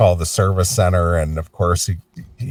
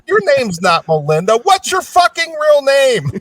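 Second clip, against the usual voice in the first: mock outrage; 4 dB louder than usual. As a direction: blow up at the operator in a squeaky voice. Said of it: "He goes".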